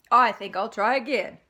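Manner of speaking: loud, cheerful pig. Acted. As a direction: bounce back brightly.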